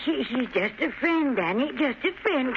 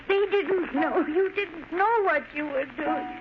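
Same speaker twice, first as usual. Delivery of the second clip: tearful pleading; 3 semitones higher than usual. Acted. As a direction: coax him to give himself up. Mother begging son to surrender.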